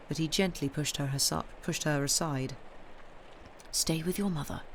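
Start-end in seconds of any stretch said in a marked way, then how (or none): 3.7-4.6 paternal affection. A narrator's reading. Father gently stopping his daughter from following, paternal affection. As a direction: gently tell a child to stay. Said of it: "a voice so full of paternal affection".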